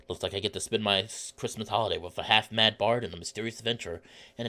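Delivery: low, softened storybook reading; story narration. A narrator's reading. Traveller recounting a holiday at a tavern, narrated low. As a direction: read the narration low and unhurried. Reads visual novel narration.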